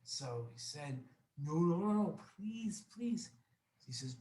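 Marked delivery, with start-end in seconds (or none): 1.4-3.3 higher-pitched acted begging; desperate pleading. Embarrassed guest begs the host to relent, desperate. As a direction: plead with rapid noes and a high please.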